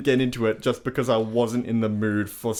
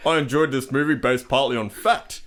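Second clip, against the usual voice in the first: lightly put-on dad voice; generic dad voice. Son reads dad's film review to co-hosts, generic dad voice. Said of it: "it's just a generic dad voice".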